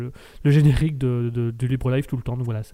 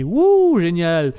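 mock cheer; 2 semitones higher, 4 dB louder, much slower than usual. Mock cheer about galette.

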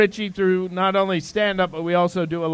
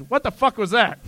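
higher-pitched startled blurt; startled outburst; 4 semitones higher than usual. Acted. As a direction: react to a sudden blast. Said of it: "He goes".

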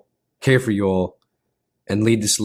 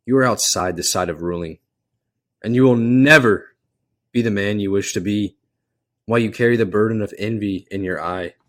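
calm king voice; faster than usual. Acted. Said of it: "the king's calm voice".

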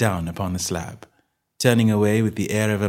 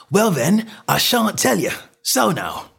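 high, indignant stallholder; huffy, raised-voice defiance; angry refusal; 11 semitones higher, 3 dB louder than usual. A narrator's reading. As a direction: dig your heels in and refuse. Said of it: "provoked a burst of anger".

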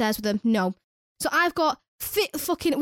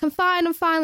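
higher, quick protest of being fine; mock brushing off concern; retold brave insistence; 5 semitones higher than usual. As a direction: insist it, pitched up. Insisting while crying, retold.

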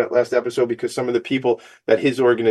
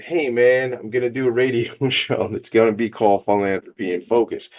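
self-mocking quote. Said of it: "walked around for two years saying".

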